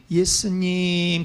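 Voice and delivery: soft, slow, timid call of the name; quiet calling. Shown as a demonstration. Blind beggar calling Jesus the wrong way, softly. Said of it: "소리 질러 이르되 가만히".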